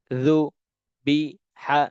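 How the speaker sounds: রুবি stretched very slowly, each sound held long; slow drawn-out reading. Shown as a demonstration. Teacher models রুবি for Quran students, very slow and drawn out. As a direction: draw out রুবি syllable by syllable. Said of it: "যেমন".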